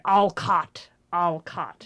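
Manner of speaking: a hint of an eerie, angry voice; angry ghost voice. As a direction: growl the name like an angry spirit. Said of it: "the angry voice going".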